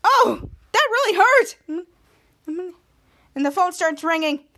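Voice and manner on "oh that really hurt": high, loud, slow complaint; mock hurt. Ray complaining after being zapped, high and loud. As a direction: ham up the sting. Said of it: "And he said".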